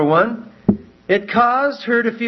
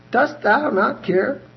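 slow, higher accusing question; accusing Martha; 7 semitones higher, slower than usual. Acted. Martha accusing Jesus, slow higher question. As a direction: ask it as an accusation, slowly. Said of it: "Accusation of the divine nature".

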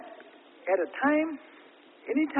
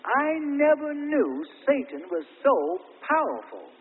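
weeping; 6 semitones higher, 5 dB louder, slower than usual. Retold or imitated. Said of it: "he was weeping".

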